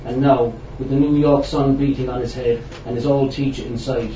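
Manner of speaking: measured literary reading; story narration. A narrator's reading. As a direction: read the prose out to an audience. Reads a prose story aloud.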